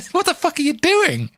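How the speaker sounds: mocking laughing question. Real, not acted. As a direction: jeer at the listener mid-laugh. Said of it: "I'm laughing at you".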